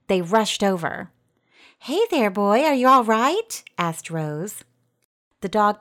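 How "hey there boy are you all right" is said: high, gentle concern for a dog. A narrator's reading. Girl checks on a whining dog, concerned. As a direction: ask a hurt dog kindly, pitched up.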